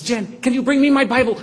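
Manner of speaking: loud, high, excited call; urgent call. Retold or imitated. Husband calling to his wife, loud and urgent. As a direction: call out across the room.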